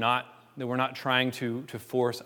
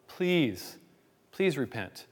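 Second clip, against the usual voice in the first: understated pleading; 3 semitones higher, much slower than usual. Acted. Church pleading with an unrepentant member, earnest plea. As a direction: appeal earnestly, without pushing the volume. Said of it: "We've pleaded with this person".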